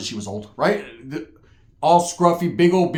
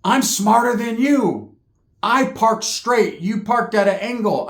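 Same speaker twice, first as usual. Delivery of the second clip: smug woman; 4 semitones higher, slower than usual. Retold or imitated. Smug woman lecturing him.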